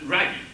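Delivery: "Raggy", Shaggy with an R in place of SH; Scooby-Doo pronunciation. Retold or imitated. Lecturer quoting Scooby's speech disorder, "Raggy" with R for SH. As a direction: start Shaggy's name with R, "Raggy". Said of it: "he obviously pronounces Shaggy's name as".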